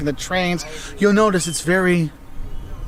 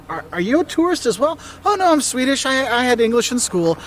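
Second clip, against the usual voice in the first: acted exchange; 5 semitones higher than usual. Acted tourist and Swede exchange.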